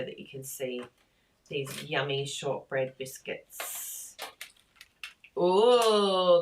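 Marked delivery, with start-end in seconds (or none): 5.4-6.4 delighted oh. Real, not acted. Admiring the biscuits up close.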